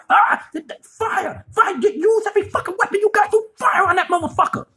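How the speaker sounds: high, fast panicked shouting; frantic yelled orders. Retold or imitated. Kylo Ren yelling at his troops to fire, high, fast, frantic shouting. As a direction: scream orders at the troops in a frenzy. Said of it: "he's spazzing the fuck out".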